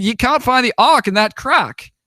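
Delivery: high-pitched mock British objection; British garden guide. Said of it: "you know, it's British".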